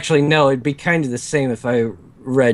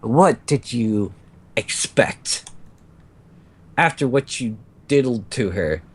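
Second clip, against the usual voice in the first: succubus voice. Acted. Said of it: "succubus voice".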